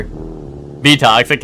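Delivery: slow, stretched mock encouragement. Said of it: "it's okay".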